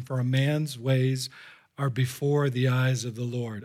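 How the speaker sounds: low, measured scripture reading; subdued, slow verse of warning; solemn warning. Real, not acted. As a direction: read it gravely, unhurried. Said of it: "one final solemn Solomonic warning".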